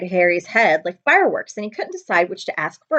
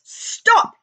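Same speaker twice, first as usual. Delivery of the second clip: sharp high barked order; panicked uncle orders a halt; commanding; 5 dB louder than usual. A narrator's reading. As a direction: snap the order out. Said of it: "he commanded".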